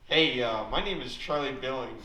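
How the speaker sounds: lightly put-on voice of a film guy; slight hammed-up swagger; Charlie Billings impression. Mocking a friend's film hobby for the crowd, lightly voiced. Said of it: "this is my impression of Charlie Billings".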